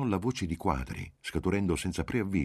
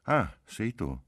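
higher-pitched, caught-out exclamation; involuntary exclamation; 6 semitones higher, slower than usual. A narrator's reading. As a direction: blurt it, between disappointment and relief. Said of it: "non poté fare a meno di esclamare". (esclamazione spontanea, tra delusione e sollievo)

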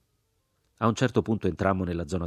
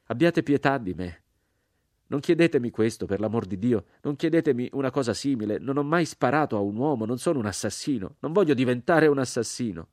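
higher, raised, desperate pleading; crying out in plea; 6 semitones higher, 3 dB louder than usual. A narrator's reading. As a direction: beg for mercy, voice lifted and urgent. (supplica gridata, accorata)

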